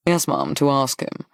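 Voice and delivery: level, steady confirming answer; firm confirmation. Acted. Young man answering the hostess's query, firm and even. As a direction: confirm it evenly, with no question. He confirms his request to her.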